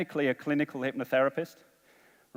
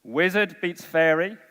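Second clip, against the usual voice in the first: slow, spelled out; 3 semitones higher, slower than usual. Shown as a demonstration. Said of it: "This is the order how it goes".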